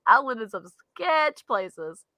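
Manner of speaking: slow, settled, with "sketch" drawn out; slow emphatic repeat. Real, not acted. Confirming to co-host the sketchy homes, slow emphasis. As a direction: linger on "sketch", laughter now gone. Repeats admission after laughing.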